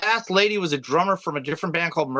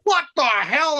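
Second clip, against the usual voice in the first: high-pitched mock disbelief, laughing; amused retelling of a shocked outburst; startled cops; 9 semitones higher, slower than usual. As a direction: act out stunned cops, pitched well up. Retelling the startled cops' reaction.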